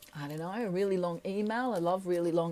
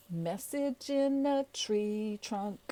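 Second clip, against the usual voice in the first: drawn out; 3 dB quieter, slower than usual. Shown as a demonstration. Playful slogan drawn out.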